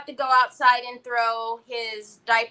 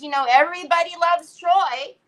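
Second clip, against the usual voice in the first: normal talking voice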